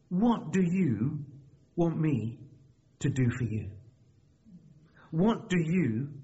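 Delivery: slow, deliberate Bible narration with weighty pauses; scripture reading. A narrator's reading. Preacher reading the healing of Bartimaeus to church, measured reading. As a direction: read it phrase by phrase to a congregation.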